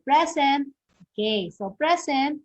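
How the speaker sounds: "present" with the weight on its last syllable, "sent"; stress on second syllable. Shown as a demonstration. Teacher showing verb stress to a class, "present" stressed on the second syllable. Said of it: "the stress in there is in the second syllable".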